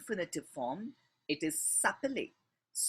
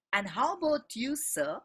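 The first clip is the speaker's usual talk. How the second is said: And how about you said higher and louder; raised, pressing question to the sir; stress on you; 6 semitones higher, 4 dB louder than usual. Shown as a demonstration. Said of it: "It's used to emphasize".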